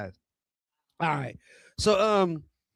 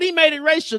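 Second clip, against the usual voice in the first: mock goose instigator; 9 semitones higher, 4 dB louder than usual.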